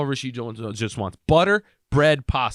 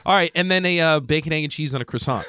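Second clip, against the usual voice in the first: mock clueless repeat; 2 semitones higher than usual. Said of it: "I say it like an asshole".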